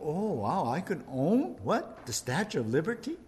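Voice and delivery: lightly voiced mark amazed at the deal; gullible amazement. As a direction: act the gullible buyer, wide-eyed. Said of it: "like probably these people".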